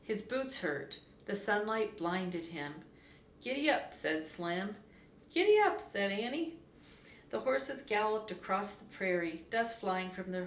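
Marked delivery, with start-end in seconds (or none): 3.4-3.9 lively, higher-pitched call to a horse; urging a horse. A narrator's reading. Cowboy urging his horse on, lively call. 5.3-5.8 high, loud, eager call; eager urging. A narrator's reading. Girl urging her horse after the cowboy, high eager call. Annie echoes the urging, brighter.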